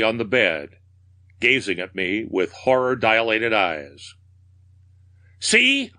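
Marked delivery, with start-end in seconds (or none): 5.4-5.9 very high, piercing cry; theatrical scream, pitch leaping up. A narrator's reading. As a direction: scream it in mad triumph. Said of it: "I screamed".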